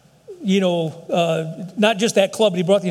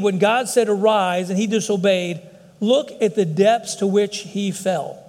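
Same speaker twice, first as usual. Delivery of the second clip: read slowly; slower than usual. Shown as a demonstration. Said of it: "if you read this slowly".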